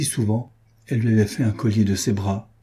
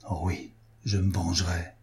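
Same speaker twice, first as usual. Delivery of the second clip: vengeful vow; 3 semitones lower, 7 dB quieter than usual. A narrator's reading. Vows revenge alone.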